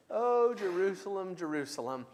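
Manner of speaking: a mild mournful lament over the city; an understated, aching lament. Shown as a demonstration. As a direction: say it like someone mourning their people. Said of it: "that's even silly the way that I just said it".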